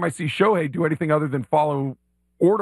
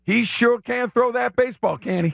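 Billy Payne; 7 semitones higher than usual. Acted. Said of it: "as Billy Payne?".

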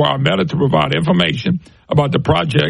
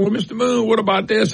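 lightly voiced questioner, pitched higher; acted questioner; 5 semitones higher than usual. Listener questioning the host, lightly voiced questioner. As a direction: put a slightly higher voice on the questioner. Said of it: "And you start saying".

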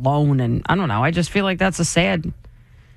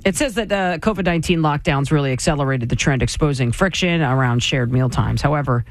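smooth radio news delivery; evenly paced headline read. Acted. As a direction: read the closing story like an anchor. Reads a news item.

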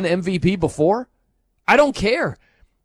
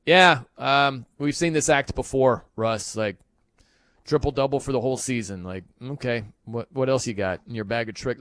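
low, soft, jaded mock fan; low bored dismissive fan voice; 6 semitones lower, 4 dB quieter than usual. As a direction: sigh it out, unimpressed. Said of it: "we were just like".

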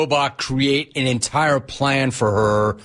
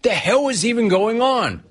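higher, baffled mock voice; imitated bewildered player; 8 semitones higher than usual. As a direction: sound lost and incredulous. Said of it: "This guy's gotta be like".

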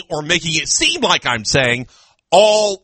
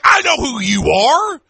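slow, emphatic, raised voice; excited recognition; 5 semitones higher than usual. Retold or imitated. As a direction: lean on each word, starstruck. Retold fan recognising him.

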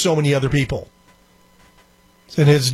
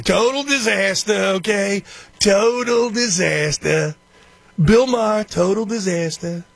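slow, drawn-out Trump-style total disaster; a lightly voiced Trump, stretching the words; Trump catchphrase; 3 semitones higher, slower than usual. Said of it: "I used to love when Trump would do that".

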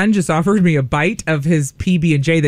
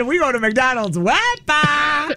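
imitating son; 6 semitones higher, slower than usual. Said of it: "Sammy said".

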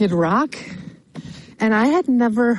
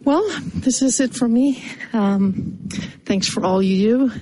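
breathing heavily while walking; 3 semitones higher than usual. Real, not acted. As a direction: talk a little winded. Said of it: "sorry for me breathing a little heavy".

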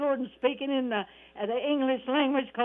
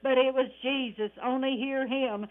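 fervent, rhythmic gospel preaching. Real, not acted. Radio preacher exhorting friends to accept Jesus, fervent preaching. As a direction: preach it in cadence, dotted with praise interjections.

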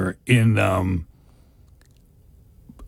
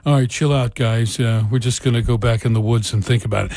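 put-on laid-back Kansas accent, slightly lower; Kevin Costner; 4 semitones lower than usual. Film star as Robin calms his men, in a laid-back Kansas accent. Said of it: "kept his Kansas accent".

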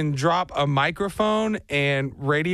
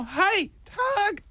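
high, stretched cheerful hi; mock Forrest Gump hello; 14 semitones higher than usual. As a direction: hail him in a much higher voice. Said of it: "Forrest Gump Lieutenant Dan wave".

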